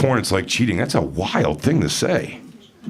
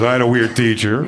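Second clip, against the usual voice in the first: lightly imitated Asian accent; mock Asian accent. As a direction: answer in a put-on Asian accent. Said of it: "starts talking again with that accent".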